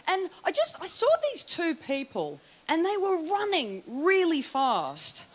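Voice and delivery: ordinary talk, nothing marked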